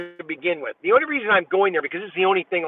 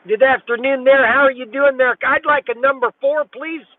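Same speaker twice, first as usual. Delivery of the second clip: higher and louder, cheery greeting into the speaker; raised drive-thru voice; 5 semitones higher, 3 dB louder than usual. Real, not acted. Man ordering breakfast at a drive-thru speaker, calling up cheerily. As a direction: call it out bright to the order box.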